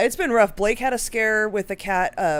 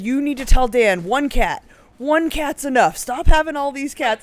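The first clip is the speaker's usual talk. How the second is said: imitating an emotional boss, louder; mock worked-up pleading from an old man; retold emotional; 4 semitones higher, 6 dB louder than usual. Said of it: "he was very emotional about it".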